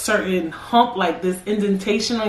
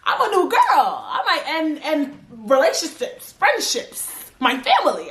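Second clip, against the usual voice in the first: giggly; 6 semitones higher than usual. Real, not acted. Giddy joking after laughing.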